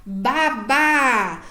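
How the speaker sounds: "babá" slowly, both syllables held; drawn-out, evenly separated "babá"; repeated-syllable demo. Shown as a demonstration. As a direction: model "babá" for a child, stretching the final vowel. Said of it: "muda pra sílabas repetidas".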